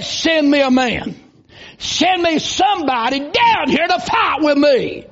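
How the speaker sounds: booming challenge from a giant, called across the valley; giant's taunt. Retold or imitated. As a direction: bellow the dare like a giant, slow. Giant taunting Israel's army.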